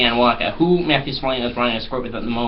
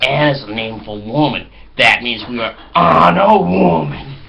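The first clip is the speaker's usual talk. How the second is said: mock dumb American bro; 4 semitones higher, 6 dB louder than usual. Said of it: "They're like".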